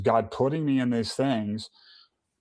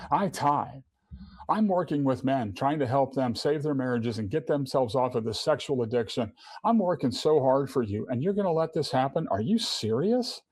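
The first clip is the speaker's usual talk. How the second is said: higher, aggrieved complaint; self-righteous protest; 3 semitones higher than usual. Retold or imitated. Man arguing with God over a fourteen hundred dollar bill, aggrieved and higher. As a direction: list your good works like an injured party. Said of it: "I'm throwing my self-righteousness up to God".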